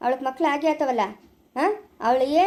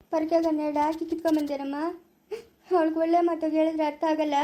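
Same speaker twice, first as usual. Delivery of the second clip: tearful complaint. Acted. Woman complaining to her mother about her daughter-in-law, tearful. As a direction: complain through tears.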